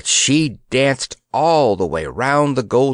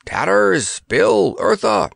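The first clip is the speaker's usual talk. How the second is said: shouted; 7 semitones higher, slower than usual. A narrator's reading. Grandpa calling his companions to flee, shouted. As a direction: call the friends urgently. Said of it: "shouted Grandpa".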